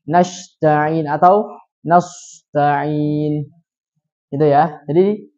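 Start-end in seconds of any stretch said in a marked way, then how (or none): 0.1-3.5 nasta'in read very slowly with s as shin then as shad; nasta'in with sh sound, then heavy shad; wrong shin and shad. Shown as a demonstration. Teacher shows students the wrong s readings. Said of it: "tapi dia baca gimana?".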